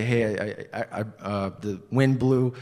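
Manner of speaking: nervous fumbling for words; stumbling excuse. Retold or imitated. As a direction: stammer out a lame excuse. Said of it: "I was stumbling like this".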